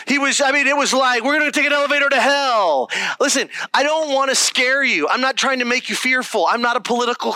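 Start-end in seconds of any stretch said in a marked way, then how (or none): 1.2-5.1 quick, higher-pitched mock preacher; mock pastor. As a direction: lightly imitate a hellfire pastor in full flow. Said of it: "Like, he was like".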